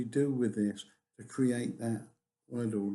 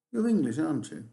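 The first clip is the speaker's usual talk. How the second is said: tag aren't you falls at the end, just checking; confirm, don't ask, falling tune on aren't you; falling tag for confirmation; 2 semitones higher, faster than usual. Shown as a demonstration. Teacher showing students a confirming tag, falling tune. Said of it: "if it goes down ... all you're looking for is confirmation".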